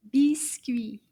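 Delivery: breathy whispered "Biscuit"; whispered word. Shown as a demonstration. Teacher whispers the word for the children. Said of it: "Do you remember the word".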